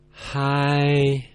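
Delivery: held high and level, no slide. Shown as a demonstration. Teacher showing learners the first tone, held high and flat. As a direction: sing "high," on one flat high note. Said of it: "And one more time".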